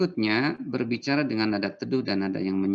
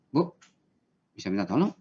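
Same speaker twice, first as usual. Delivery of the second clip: curt, flat request; not calming. Shown as a demonstration. Teacher demoing a blunt request to mother, curt. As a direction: ask offhandedly, without softness. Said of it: "itu dan tidak menenangkan itu".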